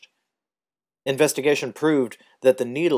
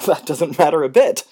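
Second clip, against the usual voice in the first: wildly; 6 semitones higher, 8 dB louder than usual. A narrator's reading. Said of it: "Carey said wildly".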